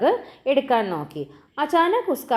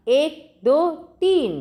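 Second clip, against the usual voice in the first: loud, rising count to start a race; race countdown; 8 semitones higher, 4 dB louder, slower than usual. Acted. Little brother counting off the race, loud and rising. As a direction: call it out like a starter, climbing.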